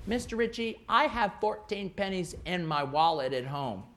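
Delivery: put-on earnest kid announcing something off topic; lightly mimicked small pupil, sing-song; little pupil piping up. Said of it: "they would go".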